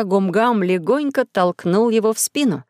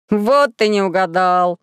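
gleeful; slower than usual. Acted. Gumgam gleefully corrects Maxim.

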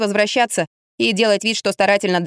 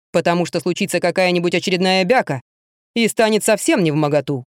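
lightly voiced father, a bit lower; a hint of a stern father's lower voice; quoting dad with a slightly lowered voice; father's advice; 3 semitones lower than usual. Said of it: "мой папа говорил".

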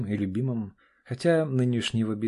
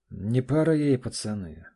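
sighed out; 2 semitones higher, 4 dB louder than usual. Acted. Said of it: "выдохнул Олег".

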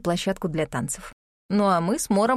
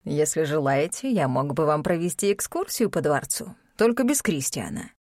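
cold rasping evil emperor; 5 semitones lower than usual. Acted. Emperor offers palace tour.

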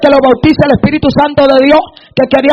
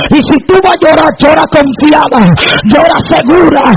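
full-force preaching. Real, not acted. Preacher urging weeping believers to trust, building full-force preaching. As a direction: push each line harder toward a climax.

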